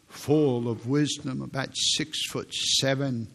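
slow deep teacher imitation. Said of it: "he talked like this".

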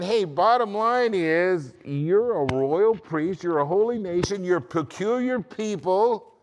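high, loud, drawn-out preaching; emphatic proclamation. Retold or imitated. Preacher voicing Peter's words to believers, emphatic proclamation. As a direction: proclaim each title slowly at full voice.

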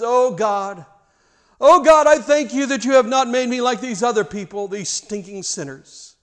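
high, loud self-righteous prayer voice; smug Pharisee. Acted. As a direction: pray like a pompous hypocrite.

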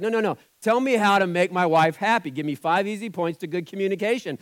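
imitating a needy husband; mock pleading. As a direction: whine for easy marriage tips. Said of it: "we're like".

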